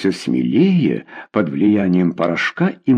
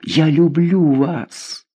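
very slow, higher, pleading "Я люблю вас"; "Я люблю вас" drawn out high and slow, begging; more desperate; 7 semitones higher, much slower than usual. A narrator's reading. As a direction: repeat it, rising in despair. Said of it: "повторил он с отчаянием".

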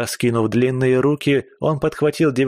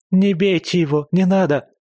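sobbing plea; 7 semitones higher than usual. Acted. Girl begging the thug to stop, high sobbing plea. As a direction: beg through a sob, voice up high. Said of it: "всхлипнула девушка".

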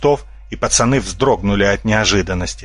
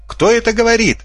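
scared squeal; 12 semitones higher than usual. A narrator's reading. Scared piglet asks who speaks.

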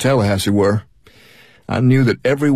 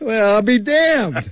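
laughing; 10 semitones higher, slower than usual. Acted. Laughing at the judge's blunder.

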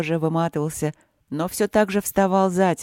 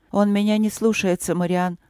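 trembling voice; 3 semitones higher than usual. Acted. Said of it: "дрожащим голосом проговорила супруга".

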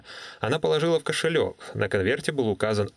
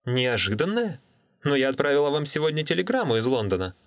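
put-on young woman voice; 4 semitones higher than usual. Natalie on the phone.

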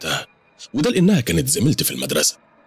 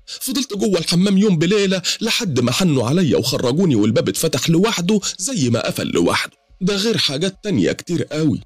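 higher, pleading woman's voice, close to tears; pitched-up, pleading storyteller's woman; tearful woman; 8 semitones higher than usual. Acted. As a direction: voice the frightened client as she pours out her troubles. Suad tells of the hauntings.

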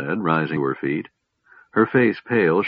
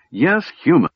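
higher, louder protest; impotent cry; 9 semitones higher, 5 dB louder than usual. A narrator's reading. Sister arguing with the elf over a human healer, impotent cry. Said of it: "Laura cried impotently".

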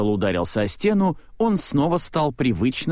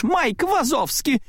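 «Майк Вазовский» медленно, высоко, с возмущённым нажимом; протяни имя сердито и с укором; slower than usual. A narrator's reading. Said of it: "разозлилась Селия". (Селия сердито отчеканивает «Майк Вазовский»)

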